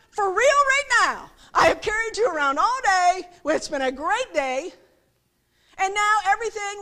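loud, high, acted-out parental outburst; exasperated parent. Parent to crying kids after a long day, exasperated. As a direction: let a fed-up parent's complaint burst out. Fed-up parent leaving theme park.

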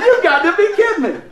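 high, loud incredulous cry; retold loud disbelief. Preacher reacting to buddy's choir secret, loud disbelief. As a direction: cry out as if you can't believe it.

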